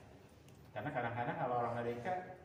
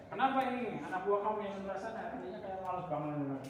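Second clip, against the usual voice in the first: mild mock anger; 8 semitones higher, 4 dB louder than usual. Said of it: "Marah-marah ke saya".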